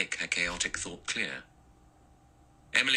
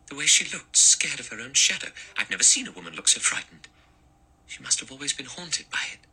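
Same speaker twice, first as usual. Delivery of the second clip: high, louder frightened voice; frightened young woman; 7 semitones higher, 4 dB louder than usual. A narrator's reading. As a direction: Vera recalling the terrified wife.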